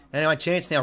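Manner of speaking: sportscaster energy calling the match; live footy commentary. Acted. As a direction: call the game like a TV commentator.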